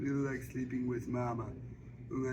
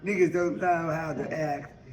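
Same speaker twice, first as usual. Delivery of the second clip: lightly voiced Suge; 2 semitones higher than usual. Suge persuades Mary Agnes to sing at Harpo's, confident. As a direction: promise her the crowd. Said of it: "she say".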